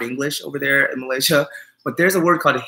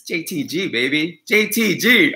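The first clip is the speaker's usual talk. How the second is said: proud self hype; 5 semitones higher, slower than usual. Pretend. Bragging his own name.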